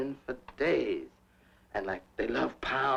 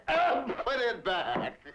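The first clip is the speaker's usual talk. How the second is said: lightly voiced father; 10 semitones higher, slower than usual. Father scolding at the table.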